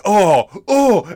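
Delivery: high startled "oh, oh"; a jolted little gasp of surprise; mock alarm. Cohost voices a viewer's startled reaction, high.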